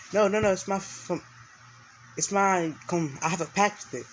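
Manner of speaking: put-on a young man defending his wolf, alarmed; alarmed protest. Character protesting to the guards.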